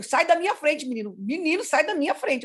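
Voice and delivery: mildly heated telling-off; angry mother. Retold or imitated. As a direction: order the child away, re-enacting irritation. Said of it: "eu tava brava com ele".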